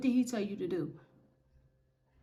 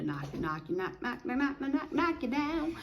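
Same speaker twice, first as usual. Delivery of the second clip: ramp the pitch up on every "knock" like blows; building knock, knock; 4 semitones higher, 4 dB quieter than usual. Acted. Preaching about God knocking you.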